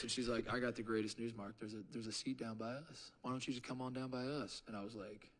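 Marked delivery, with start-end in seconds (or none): 0.5-4.6 soft, reassuring Southern-mom voice, lightly imitated; Missus Frazier. Woman offering him a seat nearby, soft reassuring imitation. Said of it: "her voice gives you a hug".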